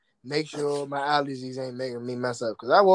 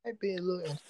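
rushed sarcastic shrug; fast mock meh; 2 semitones higher, 6 dB quieter, much faster than usual. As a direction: toss it off quickly, unimpressed. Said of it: "and, like".

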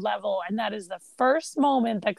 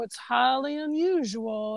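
nervous banker; slower than usual. Retold or imitated. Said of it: "the banker's very nervous".

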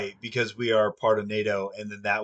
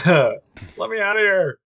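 high, loud, slow pleading; mock desperate demon; 10 semitones higher, 12 dB louder, slower than usual. Trapped demon begging to be let out, high slow plea.

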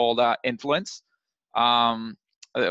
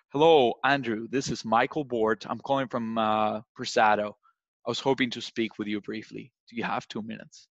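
authoritative caller. Shown as a demonstration. Salesman opening a call to a VP, calm and authoritative. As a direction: speak slowly like an expert who owns the call. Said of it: "thicken your voice ... more slowly ... more authority".

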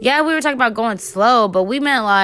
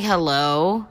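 raspy morning voice; 5 semitones lower than usual. Real, not acted. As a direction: croak it like you haven't spoken in days. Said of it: "my voice is hella raspy".

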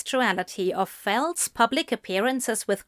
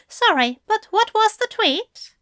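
butting in; 12 semitones higher, 4 dB louder than usual. A narrator's reading. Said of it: "Aziraphale butted in".

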